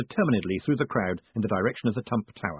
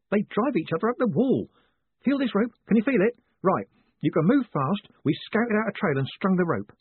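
high-pitched, eager guide's voice; earnest helper Adrian; 10 semitones higher than usual. Acted. Adrian guiding Moist through the dark, high urgent voice. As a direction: play a keen, urgent lookout.

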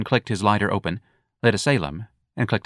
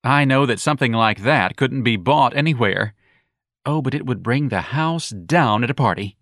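put-on campy young man; 3 semitones higher than usual. Young man mocking the earring, high and campy.

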